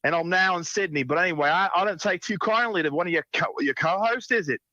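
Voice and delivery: a mild prank-call character voice; put-on caller voice. Crank caller complaining to the hobbit call-in show, lightly voiced. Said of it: "She's been practicing voices".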